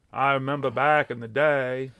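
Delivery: put-on drawn-out New England accent. Imitating the dude in Jaws for the chat, New England accent. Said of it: "they talk like the dude in fucking Jaws".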